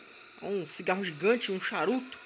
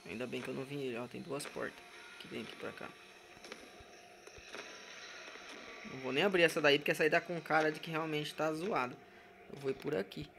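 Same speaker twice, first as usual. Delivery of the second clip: hushed; 5 semitones lower, 9 dB quieter than usual. Real, not acted. Creeping quietly through the scary house.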